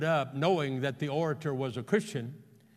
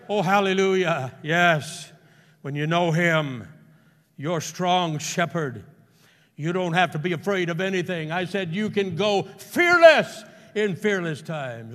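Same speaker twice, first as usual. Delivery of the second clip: raised, loud pulpit exhortation; fervent preaching; 3 semitones higher, 7 dB louder than usual. Real, not acted. Preacher telling the church not to be afraid, loud and fervent. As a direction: preach it hard, bursting loud on FEARLESS.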